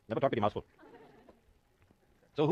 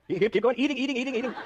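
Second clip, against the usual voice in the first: laughing cheer; 7 semitones higher than usual. Real, not acted. Cheering student on while laughing.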